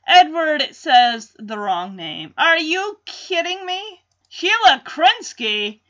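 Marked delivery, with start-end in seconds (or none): 2.4-5.8 a slightly higher, eager exclaim; excited outburst. Retold or imitated. Edward wrongly guessing his wife's voice, eager exclaim. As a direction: jump up at the name, mildly excited. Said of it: "As he stands up excitedly".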